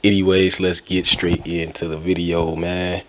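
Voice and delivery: stuffy, blocked nose; talking with a head cold; nasally. Real, not acted. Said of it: "pretty much nasally".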